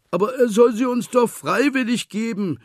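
high, loud plaintive piglet; whiny high piglet voice; whining. A narrator's reading. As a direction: plead that gifts be given freely. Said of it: "jammerte Schweinchen".

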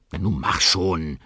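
langsam gedehnt, ungeduldig drängend. A narrator's reading. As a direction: treib ihn ungeduldig an. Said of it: "sagt Molly ungeduldig". (Molly drängt Danny ungeduldig)

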